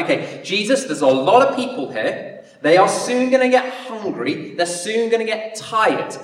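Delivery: kind, gentle suggestion to Jesus; caring disciples. Retold or imitated. Disciple gently suggesting to Jesus the crowd needs food, caring. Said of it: "That might be how it is".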